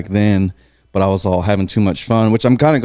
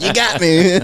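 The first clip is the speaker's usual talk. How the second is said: high squeaky laugh-through line; laughing quote; 10 semitones higher, slower than usual. Retold or imitated. Retelling the cop story, laughing through the quote. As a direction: giggle it out, voice jumping up.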